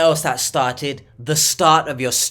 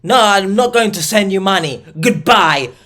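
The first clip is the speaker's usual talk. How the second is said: louder, higher, exasperated brush-off; mock firm refusal; 4 semitones higher, 6 dB louder than usual. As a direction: refuse and hang up on them. Acts out refusing the money request.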